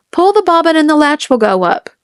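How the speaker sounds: a wolf pretending to be a sweet old grandmother; wolf faking Granny. A narrator's reading. Wolf calls to the girl, faking Granny's voice. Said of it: "trying to sound like Granny".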